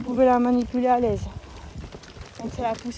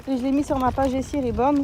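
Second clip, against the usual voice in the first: shouting over wind; 5 dB louder, faster than usual. Real, not acted. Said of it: "m'entendez bien avec le vent".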